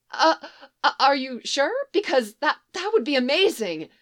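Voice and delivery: thrilled but tongue-tied; flustered. Acted. Flustered reply to Adrien's invitation.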